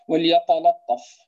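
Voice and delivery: وليتلطف with both lam and ta thick; heavy lam and ta. Shown as a demonstration. Teacher demos the mistaken heavy reading. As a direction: say it the wrong, fattened way. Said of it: "هذا خطأ".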